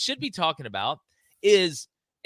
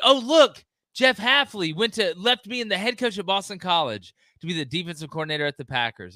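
mocking alarm; 3 semitones higher than usual. Host parodying fans about Hafley leaving, mock alarm. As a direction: play the scandalized fan for laughs. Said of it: "And they're like".

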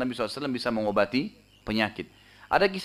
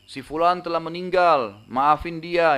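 raised-pitch announcement, a half shout; mild mock proclamation; 4 semitones higher, 4 dB louder, slower than usual. Crier on the minaret announcing a death, mild mock shout. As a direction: lightly imitate a crier's call, higher. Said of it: "naik ke atas menara teriak".

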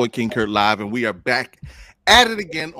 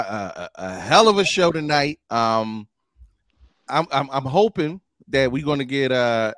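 normal talking voice

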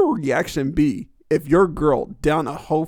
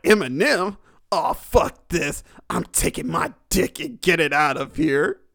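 mock disgusted disbelief; 2 semitones higher than usual. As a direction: imitate a character giving up in disgust. Ken Kaniff reacts and storms off.

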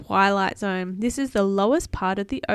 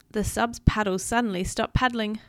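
put-on animated read-aloud for a child; storybook narration; story narration; 6 dB louder than usual. A narrator's reading.

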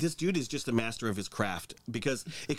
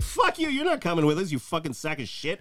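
mock bully; 4 semitones higher than usual. Imitating bullies mocking Trump.

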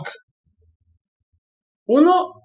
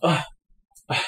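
dramatic sigh; 7 dB quieter than usual. Retold or imitated. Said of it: "Esa cosa dramática de".

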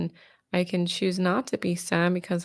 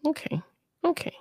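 whispered okay; 9 semitones higher, 4 dB quieter, faster than usual. Acted. Therapist soft high okay.

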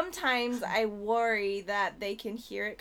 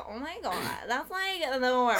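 joking vocal fry; 2 semitones higher, 3 dB louder than usual. Shown as a demonstration. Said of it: "joke around, I'm like".

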